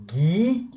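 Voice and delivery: "Guignol" in two parts, gui-gnol; "Guignol" with rising gui, pause, then gnol; split into syllables. Shown as a demonstration. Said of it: "rajouter les arcs syllabiques".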